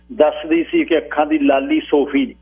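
ordinary delivery

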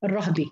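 الرهب as ar-rahbi, h without vowel; open ra, silent ha. Shown as a demonstration. Teacher repeating Hafs's form, open ra and silent ha. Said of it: "حركة الفتح وسكون الهاء".

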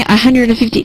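"a hundred and fifty" skimmed past quickly; quick, glossed over. Shown as a demonstration. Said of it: "它很快就过去了".

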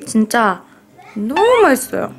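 ordinary talk, nothing marked

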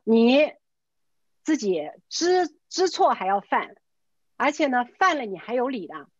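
retold telling-off, slow and emphatic; stern scolding. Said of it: "我把他骂完".

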